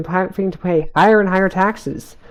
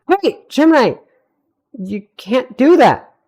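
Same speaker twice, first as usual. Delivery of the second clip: hushed urgent yell, higher; quiet yell; 8 semitones higher, 4 dB louder, slower than usual. A narrator's reading. Star hushes Gemini urgently, a quiet yell. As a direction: hold the shout down to a hush. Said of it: "Star quietly yelled".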